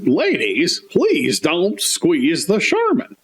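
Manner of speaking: slow, mildly indignant scolding; indignant Mr. Whipple. Retold or imitated. Store clerk scolding women squeezing toilet paper, slow and indignant. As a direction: scold the ladies slowly, a touch prim. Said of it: "very, very indignant".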